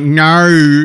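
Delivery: American's clumsy attempt at an Australian "No"; bad Aussie accent. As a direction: imitate a badly faked Aussie "No". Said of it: "Americans try to imitate Aussies".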